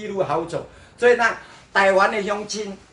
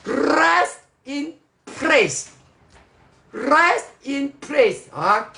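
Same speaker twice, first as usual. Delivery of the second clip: "rest in place" drawn out slowly and high in mock slang; put-on slang English; 6 semitones higher, much slower than usual. Shown as a demonstration. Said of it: "要slang的".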